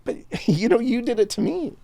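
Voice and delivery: barely holding it together; choked up. Real, not acted. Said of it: "I'm emotional again".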